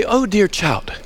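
lightly imitated British lady teacher; "dear child" with a hint of British accent. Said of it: "in a British accent, she'd say".

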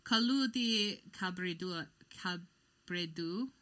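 slow, drawn-out bad Italian accent; badly faked Italian accent, stretched slowly; horrible Italian accent. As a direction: attempt Italian and overdo the inflection. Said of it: "your horrible Italian accent".

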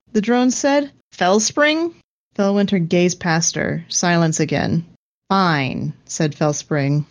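measured audiobook-style read; even-paced storyteller with light character voices; story narration. A narrator's reading. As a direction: read fiction aloud, voicing dialogue lightly. Reads the story aloud.

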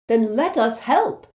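loud, high, slow angry plea. A narrator's reading. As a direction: demand it angrily, each word pushed. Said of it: "said Neville angrily".

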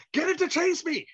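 a giddy repeated plea; imitating Walken. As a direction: Walken begging to be chased. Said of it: "he's like".

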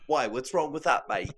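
put-on British accent. Teased friend defending his impression, in put-on British accent. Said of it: "never do that accent again".

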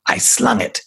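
whispered spirit voice. Acted. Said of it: "that voice came from her".

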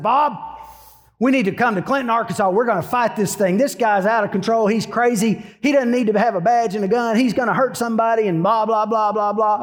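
mock raging on the phone to a lawyer friend; retold raging. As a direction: replay your own indignant tirade, running off into blah-blahs. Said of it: "I'm all raging".

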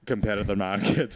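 imitating a meerkat mascot's Russian accent. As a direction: advert slogan in a mock Russian accent. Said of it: "they've got Russian accents".

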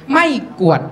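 ไม่กวด with Korat tones and short vowel; Korat pronunciation. Shown as a demonstration. Showing how Korat people say broom, Korat pronunciation. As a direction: say ไม้กวาด as ไม่กวด, Korat style. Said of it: "คนโคราชนะครับ ทุกคนจะออกเสียงคำว่าไม้กวาดเป็น".

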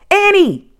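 very high, loud name call; urgent high holler; alarmed shout. A narrator's reading. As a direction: yell her name in alarm. Jack shouts back in alarm.

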